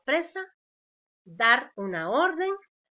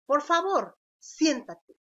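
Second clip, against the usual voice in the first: pleading; 4 semitones higher, 4 dB louder, slower than usual. Shown as a demonstration. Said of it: "Es un ruego".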